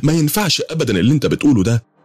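high, indignant disbelief; shocked refusal. Acted. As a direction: recoil from a mad proposal.

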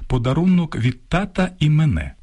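«мене» stressed on the first syllable, мЕне, as the error; wrong stress quoted. Shown as a demonstration. Ведучий цитує хибний наголос, почутий у ЗМІ. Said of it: "такі наголоси".

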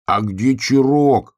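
loud, slow desperate cry; shout. Acted. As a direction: cry out the question in despair. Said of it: "крикнул поросенок".

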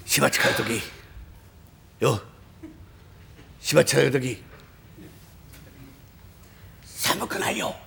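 ordinary delivery

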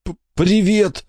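high, slow, stammered greeting; boy greets his rescued friend, crying and smiling; squeezed out through tears. A narrator's reading. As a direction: laugh and cry at once. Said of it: "выдавил Жуки, плача и улыбаясь".

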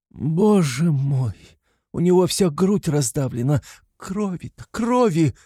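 высокий отчаянный вскрик; почти кричит от ужаса при виде крови; в отчаянии. A narrator's reading. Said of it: "проговорила она в отчаянии". (в отчаянии, высоким срывающимся голосом)

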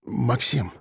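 timid murmur. A narrator's reading. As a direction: whimper his name. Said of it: "пролепетал он".

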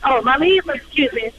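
normal talking voice

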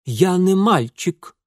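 slow, high, hurt insistence; proud protest. Acted. Boy protesting he is grown, slow proud high voice. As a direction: draw yourself up, offended.

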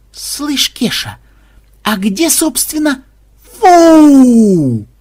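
high, slow nasal program voice; a startled gruff coder cut off; Xenobyte's voice. Acted. Xenobyte pops out of void.

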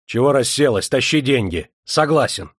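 loud, exasperated command; shouting. Acted. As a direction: shout at her to hurry up. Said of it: "крикнул".

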